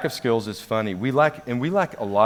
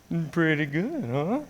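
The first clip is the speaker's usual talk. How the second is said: higher-pitched, fishing for agreement; mock self-satisfied remark; 6 semitones higher, 3 dB quieter than usual. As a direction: lift it into a pleased question. Acts out own past remark.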